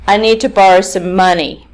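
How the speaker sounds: final "money" carries the sentence stress. Shown as a demonstration. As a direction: stress "money" at the end of the statement. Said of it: "is to try doing it in the opposite way".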